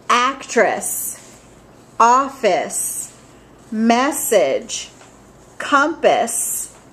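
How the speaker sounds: each word slow and clear, with a pause after it; word list read for repeating. Acted. Teacher reading spelling words for students to repeat, clearly paced. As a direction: model each word for children to echo.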